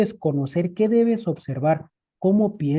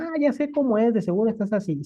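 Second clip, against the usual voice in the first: much higher, mock know-it-all tone; know-it-all assumption; 4 semitones higher, faster than usual. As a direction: toss it off like you already know everything. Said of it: "A veces decimos". (tono burlón de sabelotodo, mucho más agudo)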